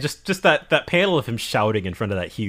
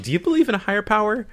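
laughing quote; 8 semitones higher, faster than usual. Retold or imitated. Quoting Sanji while laughing.

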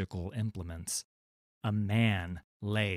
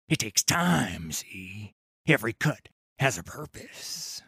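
a lightly voiced cold, patient pirate captain. Pirate captain lecturing the boy, lightly voiced cold menace. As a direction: savour each word like a calm butcher.

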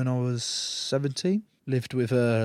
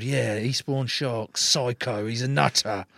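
mock intimidating; slower than usual. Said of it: "trying to be mean and intimidating".

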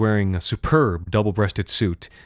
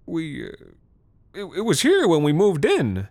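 sullen defensive; 8 semitones higher than usual. Acted. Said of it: "sullen and defensive".

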